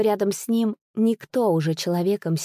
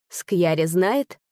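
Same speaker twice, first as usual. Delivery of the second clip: ordinary delivery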